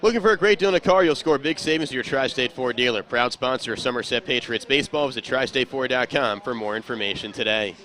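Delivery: punchy upbeat sponsor read. Acted. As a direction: sell it like a radio spot.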